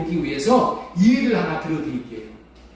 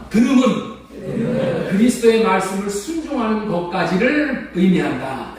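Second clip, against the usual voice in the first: leading the congregation in recitation. Shown as a demonstration. Pastor leading his church in repeating the verse. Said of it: "따라서 한번 하겠습니다".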